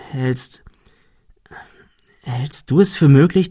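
halting, whispered question; hesitant whisper. A narrator's reading. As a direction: whisper it, unsure whether to ask. Hesitant secret question about murder. (zögerndes Flüstern)

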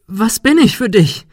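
high, loud ghostly question; eerie accusation. A narrator's reading. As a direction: demand it hauntingly. Ghostly Sarah asks Ben. (hohe, unheimliche Frage)

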